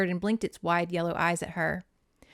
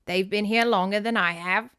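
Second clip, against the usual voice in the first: lightly British great-aunt; light joke in a put-on British accent; bad British accent. Great aunt adding with a smile, British accent. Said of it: "Dick Van Dyke's British accent in Mary Poppins".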